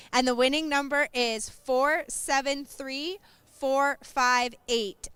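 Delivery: slow, clear number call; raffle caller. Real, not acted. Announcing the raffle number slowly.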